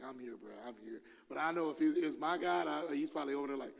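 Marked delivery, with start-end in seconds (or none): 0.0-1.0 soft, easy reassuring murmur; calm him down like a buddy; patient reassurance. Retold or imitated. Patient God reassuring a wandering believer, soft and easy. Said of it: "so he's like".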